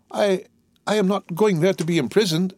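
high, halting start of alarm; alarmed protest. Acted. Prisoner fears he'll be imprisoned there, alarmed protest. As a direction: stammer the first word, voice pitched high.

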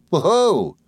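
very high, loud oh; little creature's cry. Acted. Mowcher cries out at the guests, very high. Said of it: "she cried exactly as before".

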